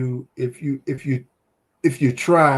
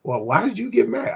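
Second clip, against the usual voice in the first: laughing question; 7 semitones higher, faster than usual. Retold or imitated. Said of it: "people are like".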